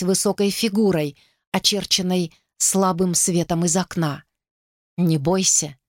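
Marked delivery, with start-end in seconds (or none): 5.0-5.8 soft, cool, calming voice; calm her softly. A narrator's reading. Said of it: "Голос был прохладным и мягким".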